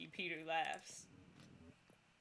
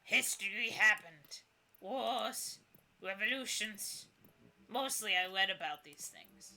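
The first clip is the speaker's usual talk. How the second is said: put-on creaky old ghost. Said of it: "The ghost voice creaks like ancient wood".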